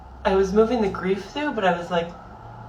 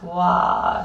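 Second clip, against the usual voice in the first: humming sound demo; 5 dB louder than usual. Shown as a demonstration. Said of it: "vibration and humming".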